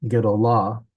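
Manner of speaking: "Gedolah" as gedo-LAH, weight on the end; last-syllable stress. Shown as a demonstration. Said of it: "the accent is on the last syllable".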